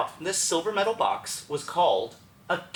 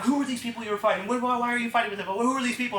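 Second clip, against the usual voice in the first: higher, hurried voices piling on questions; rapid-fire questioning; 6 semitones higher, faster than usual. Retold or imitated. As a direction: fire questions over each other. Staff interrogate him at once.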